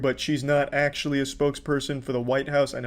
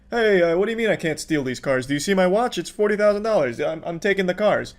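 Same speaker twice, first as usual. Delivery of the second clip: higher-pitched entitled rich lady; mock entitled Karen; 4 semitones higher than usual. Commentator mocking the woman with the Rolex, higher entitled whine. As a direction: flaunt it like a spoiled rich lady.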